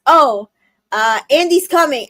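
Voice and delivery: hammed-up lookout call; mock toy alarm. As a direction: warn the other toys in a hurry. Toys warning each other in movie.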